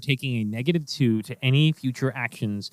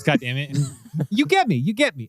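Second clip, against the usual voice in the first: slipping into cockney; 4 semitones higher than usual. Acted. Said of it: "Now I'm doing your fucking voice".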